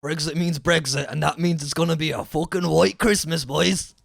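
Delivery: hammed-up West Country bloke; West Country accent. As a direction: riff in a West Country burr. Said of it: "In the West Country accent".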